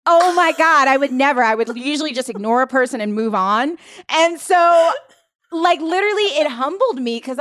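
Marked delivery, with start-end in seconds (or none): 0.1-1.4 mock indignant. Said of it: "And I'm like".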